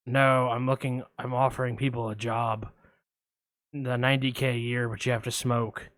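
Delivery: a hint of Buffalo Bill, low; creepy caller. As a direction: lurk low like a shady caller. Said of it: "I'm gonna play both parts".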